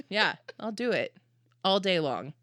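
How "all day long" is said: normal talking voice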